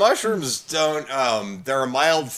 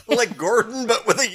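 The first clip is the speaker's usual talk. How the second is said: words through laughter; laughing; 9 semitones higher than usual. Real, not acted. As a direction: laugh while saying it.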